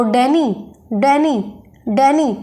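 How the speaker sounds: डैनी repeated, each time with डै stressed; stress on first syllable. Shown as a demonstration. Teacher drilling डैनी for students, first syllable stressed. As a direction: push the डै of डैनी, leave नी light. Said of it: "डे पर straight syllable है".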